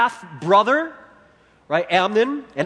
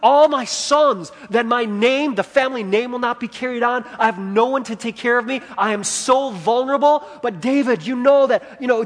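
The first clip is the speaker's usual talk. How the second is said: raised, urgent begging voice; pleading widow; 4 semitones higher than usual. Retold or imitated. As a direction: beg the king for your son's life. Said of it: "So she's pleading".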